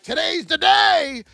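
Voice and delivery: high, loud eager shout; mock excited trader. Imitating a new trader before the first trade, eager shout. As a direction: jump in like a rookie sure of a win. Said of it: "You're like".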